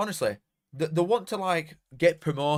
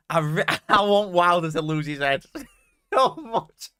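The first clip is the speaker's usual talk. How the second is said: higher and louder, giggling through the words; gleefully laughing at the thought of a meltdown; laughing excitedly; 6 semitones higher, 7 dB louder than usual. Real, not acted. Hoping the rival manager loses it, laughing excitedly. Gleeful hopes about Wilder losing it.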